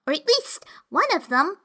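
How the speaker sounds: put-on breathy girlish whisper. A narrator's reading. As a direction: whisper it to yourself. Alice voiced, trailing.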